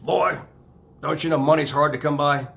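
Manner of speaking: a hint of a stern Southern dad; Georgia accent. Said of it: "had this Georgia accent".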